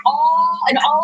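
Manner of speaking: high, projected welcome to the stage; host introduction. Real, not acted. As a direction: announce the guests to an applauding crowd. Introducing guests to studio audience.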